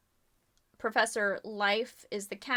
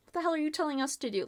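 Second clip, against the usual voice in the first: angry; 6 semitones higher, much faster than usual. Acted. Acted quarrel, accusing James.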